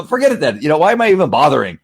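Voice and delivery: acted-out fed-up dad; frustrated. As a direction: throw it out in annoyance. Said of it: "known to get frustrated".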